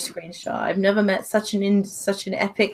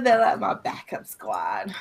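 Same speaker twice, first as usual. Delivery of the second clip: whispered aside; 5 dB quieter than usual. Real, not acted. Playful aside about her friends.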